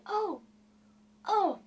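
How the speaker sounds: high delighted oh, oh; excited cry. A narrator's reading. Della suddenly remembers her present for Jim, high excited cry. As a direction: leap up like a singed cat. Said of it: "and cried".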